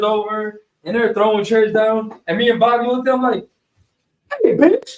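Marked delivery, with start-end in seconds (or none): 4.4-4.9 high, laughing mock yell; retold yell, laughing. Speaker yells at girls throwing chairs, laughing mock yell. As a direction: bark the order while half laughing.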